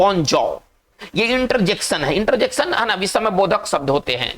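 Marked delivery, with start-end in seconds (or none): 0.0-0.6 bonjour as "bon-JAW"; French pronunciation. Shown as a demonstration. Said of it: "इसको पढ़ेंगे".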